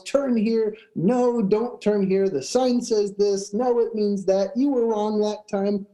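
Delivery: mild mock yell, trading contradictions. Passengers arguing over the turn, mock yelling. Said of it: "everybody starts yelling at everybody else".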